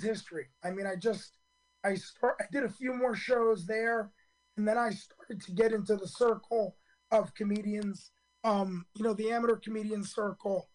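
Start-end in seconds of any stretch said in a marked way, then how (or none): 4.6-10.7 rough, hoarse throat. Real, not acted. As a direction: speak through a hoarse voice. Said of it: "I apologize for the hoarse voice".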